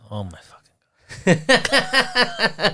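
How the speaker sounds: drawn-out exasperated groan; long, eye-rolling disbelief. Real, not acted. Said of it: "See, you're rolling your eyes".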